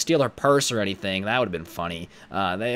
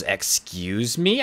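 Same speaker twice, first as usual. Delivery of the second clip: mock offence; 3 semitones lower, much slower than usual. Retold customer takes offence.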